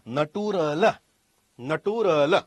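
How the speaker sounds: નટુરલ in separate syllables, na-too-ra-la; read as spelt. Shown as a demonstration. Pupil reading the word by its spelling, syllabled નટુરલ. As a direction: sound out નટુરલ letter by letter. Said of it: "આપણે શું વાંચીએ?".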